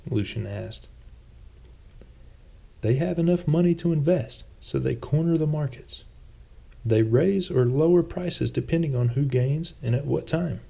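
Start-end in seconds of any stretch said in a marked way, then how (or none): 2.8-10.6 Thomas, a touch sheepish. A narrator's reading. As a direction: play Thomas a little defensive, pitched up. Thomas voiced by narrator.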